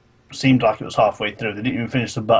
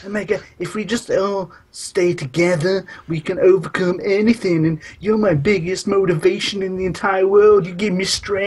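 higher, hammed-up sweet sister voice; mock her cloying pep talk; mock saccharine sister; 7 semitones higher, 3 dB louder than usual. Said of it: "she's just like".

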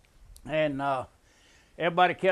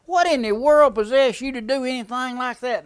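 higher, louder incredulous demand; exclaiming in disbelief; 7 semitones higher, 7 dB louder than usual. Retold or imitated. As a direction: demand an answer, still rattled. Friend shaken after running from gator.

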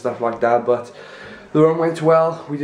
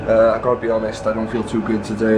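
stuffy, congested voice; talking through a blocked nose. Real, not acted. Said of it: "I don't know if I sound a bit stuffy".

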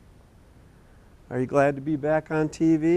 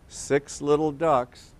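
read-along title; slower than usual. Shown as a demonstration. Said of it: "Here's the title".

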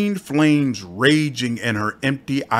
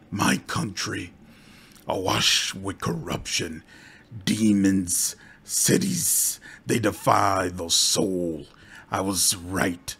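bitter undead priestess; 4 semitones lower, 5 dB quieter than usual. Acted. Undead priestess voice, lower and softer.

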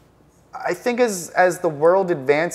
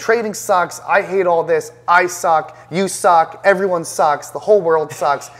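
retold frustrated outburst, a bit louder; mock furious rant; 3 dB louder than usual. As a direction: act out a pissed-off trader venting after a loss. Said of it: "I'm furious, I'm slamming my desk".

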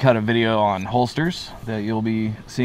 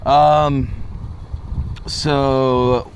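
talking around cigar; speaking between puffs; cigar in mouth; 4 semitones higher, much slower than usual. Real, not acted. Seen 1: left man holds cigar to mouth throughout, smoke visible at 4.1.

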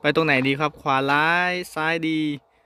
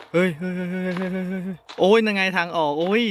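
panicked yelps; 6 semitones higher than usual. Real, not acted. Panicked in dark horror tunnel.

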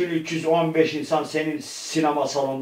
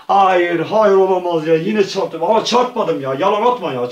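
loud mock dismay, raised in pitch; dismayed protest; 3 semitones higher, 5 dB louder than usual. Player denying having hit the beams, in dismayed protest. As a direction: protest the ruling loudly.

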